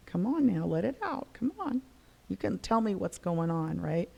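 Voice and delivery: quiet, tender urging; hushed, encouraging nudge; gentle coaxing. Retold or imitated. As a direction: softly coax a shy child to open up. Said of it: "You have to coax it up".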